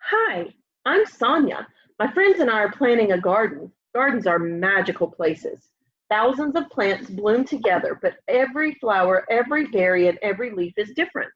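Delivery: gentle storybook reading voice; lively picture book read-aloud; reading to children. Acted. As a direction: read it aloud like story time for little kids.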